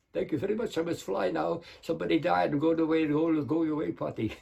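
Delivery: lightly voiced Hungarian vampire accent; quick Dracula sign-off with a hint of Hungarian accent; Bela Lugosi. Dracula excuses himself to fly off, light Hungarian accent. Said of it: "Bela Lugosi or Count Dracula".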